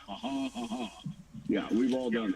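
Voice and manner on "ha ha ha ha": high, hammed-up knowing chuckle; mock laugh, pitched way up. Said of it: "He says with a knowing laugh".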